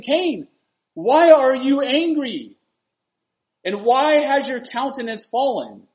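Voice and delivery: high, loud, drawn-out questioning; preacher thundering God's question; forceful confrontation. Acted. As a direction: challenge Cain as God would, slow and ringing. Voices God challenging Cain.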